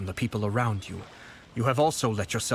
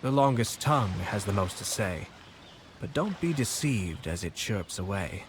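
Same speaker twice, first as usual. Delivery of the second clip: recited proverb. Retold or imitated. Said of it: "The reason they give is this".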